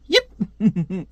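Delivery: short high yelped "yep"; quick squeaky little yelp; Archie impression. Reader repeating the yelp for fun, high squeaky yelp. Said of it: "He's like Archie".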